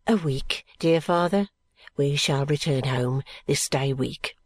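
low, hushed, respectful reply; dutiful son. A narrator's reading. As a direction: answer your father meekly.

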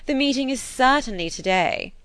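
quick, curt correction; abrupt. A narrator's reading. Mrs Elton correcting the meeting day, abrupt. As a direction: snap the date right back at her. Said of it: "was the abrupt answer".

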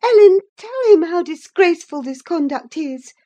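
high, loud furious rebuke; passionate scolding. A narrator's reading. Catherine scolding Linton in a passion. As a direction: tear into him with scorn. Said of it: "in a passion".

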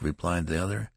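ordinary delivery, nothing marked

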